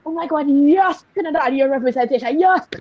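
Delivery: thrilled burst of joy; mild excited squeal. Retold or imitated. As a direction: gush with excitement at the news. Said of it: "And I was so excited".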